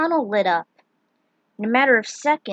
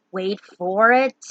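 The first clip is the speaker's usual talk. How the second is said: slow and louder, rising strain; tense hold; 2 semitones lower, 5 dB louder, slower than usual. Acted. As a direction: press the wait harder this time. Firion holds the group back.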